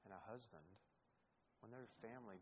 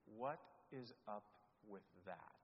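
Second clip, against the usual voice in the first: bold question; 2 semitones lower than usual. Acted. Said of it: "if I could dare say".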